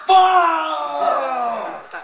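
long, loud drawn-out curse; rage shout. Pretend. Gamer cursing at the game, long rage shout. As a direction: let the swear word stretch into a high yell.

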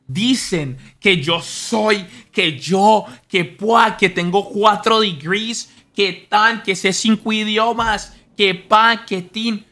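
loud, high mock boasting; mocking braggart. Imitating a braggart, loud and high. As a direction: puff up like a show-off. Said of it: "las personas que más hablan".

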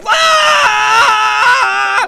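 long high charging scream; battle cry. Acted. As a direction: scream at full volume as you charge. Charging into the fight.

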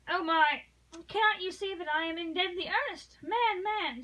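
high and loud, desperate pleading; urgent plea. Acted. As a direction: push him to believe her, rising.

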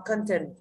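"Content" with the first O said as a schwa, ơ. Shown as a demonstration. Teacher showing students the weak O, "Content" with ơ in the first syllable. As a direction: say "Content" as "kơn-tin", reduced first vowel. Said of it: "O là ơ đúng không?".

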